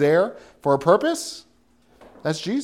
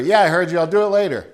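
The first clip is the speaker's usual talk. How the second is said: put-on lazy teen reply; 3 semitones higher, 5 dB louder, faster than usual. Son answering parent.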